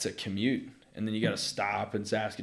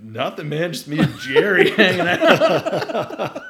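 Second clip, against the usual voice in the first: high, loud, slowed laughing mock innocence; hammed-up innocent giggle; 7 semitones higher, 10 dB louder, slower than usual. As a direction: play it caught but innocent. Retold innocent reply.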